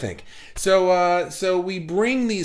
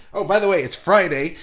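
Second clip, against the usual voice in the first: excited; 4 semitones higher, 5 dB louder than usual. Real, not acted. Announcing Friday on live stream.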